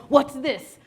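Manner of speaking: loud mock interrogation; mock demanding officer. Officer questioning her grocery bags, mock demanding.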